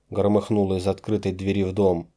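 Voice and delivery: plain reading voice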